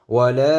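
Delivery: "ওয়ালা" with the final vowel held very long; three-alif stretch. Shown as a demonstration. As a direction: chant out the end of "ওয়ালা". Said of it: "তিন আলিফ টান আছে". ("ওয়ালা" তিন আলিফ টেনে)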